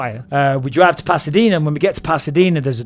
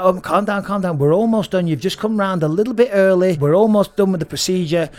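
higher-pitched doctor trying to calm someone; retold hurried reassurance; doctor calming patient; 4 semitones higher than usual. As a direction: imitate a doctor urgently settling a patient. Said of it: "And the doctor's like".

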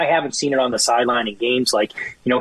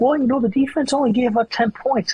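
mock radio caller; 10 semitones higher than usual. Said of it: "they're like".

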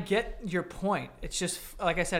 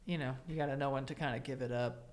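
mock-serious, fading quieter; 3 semitones lower, 3 dB quieter than usual. Friend mockingly agrees in a falsely serious tone. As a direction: pretend to sincerely agree. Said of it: "in a serious tone".

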